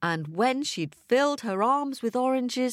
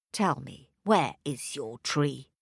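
wicked stepmother; 7 semitones lower than usual. A narrator's reading. Stepmother demands the tree.

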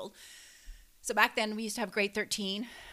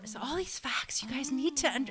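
whispering; 3 semitones higher than usual. Real, not acted. Joking aside, voice drops.

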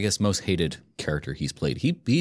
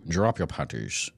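quoted movie line; 5 semitones lower, 5 dB quieter than usual. Retold or imitated. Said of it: "That's my only line with him".

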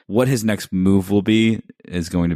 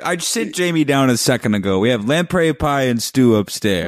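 higher, hammed-up Tywin voice; mock Tywin; 8 semitones higher, 4 dB louder than usual. Friend parodying Tywin's fake welcome, hammed-up. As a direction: play the pompous father on the toilet.

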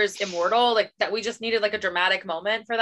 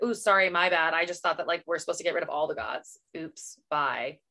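flippant; 3 semitones lower, 4 dB quieter than usual. Retold or imitated. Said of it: "she was like".

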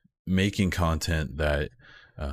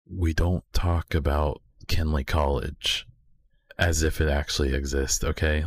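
right in your ear. Pretend. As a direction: lean into the mic like a secret. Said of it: "getting real close to the mic and whispering directly to your ear hole".

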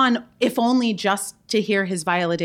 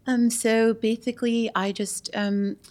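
hesitant, halting celebrity impression; Drew Barrymore. Guest does an impression on request, halting and rambling. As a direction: lightly imitate her, stumbling over the start of each phrase. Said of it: "Drew Barrymore".

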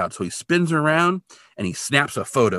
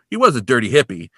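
higher, louder mock old-man line; funny-talking old guy; 4 semitones higher, 6 dB louder than usual. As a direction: imitate the old guy's put-down. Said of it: "the guy talks funny".

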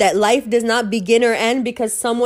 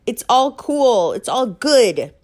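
high, slow placating assurances; imitating forced comforting words; mock reassuring; 4 semitones higher than usual. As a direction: soothe her in a sing-song, half-mocking. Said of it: "She needed me to".

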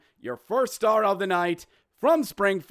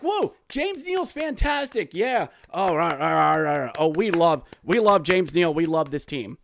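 mock happy fan; 4 dB louder than usual. Host mocking Springfield fans gushing over Neal, giddy fan voice. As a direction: gush like a naive fan.

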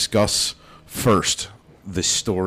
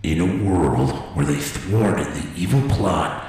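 movie trailer voice. Pretend. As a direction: intone it like an epic film trailer. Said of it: "movie trailers always start off like that".

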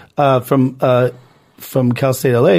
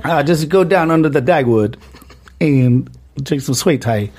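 put-on southern accent; slower than usual. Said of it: "transition to my southern Texas accent".

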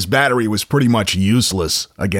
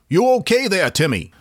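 high-pitched Maine lobsterman voice; a folksy Down East fisherman calling from his truck; 9 semitones higher than usual. Retold or imitated. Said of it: "And, uh, Tim said".

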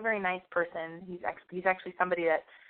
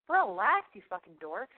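mock dismissal; 3 dB louder than usual. Telling off the quiet-asking kids.

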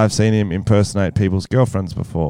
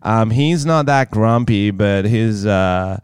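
lightly voiced American girlfriend, lingering on words; put-on American girlfriend drawl; American girlfriend impression; slower than usual. Pretending to be own girlfriend discussing the boyfriend, light American voice. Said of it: "he has to impersonate his mysterious American girlfriend".

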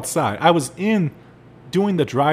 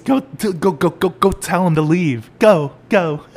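much higher at first, louder and urgent; panicked boss; 5 semitones higher, 5 dB louder than usual. Retold or imitated. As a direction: shoo them out in a panic. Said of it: "he goes".

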